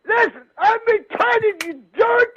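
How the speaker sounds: angry yell. Real, not acted. The speaker yelling at the prank caller.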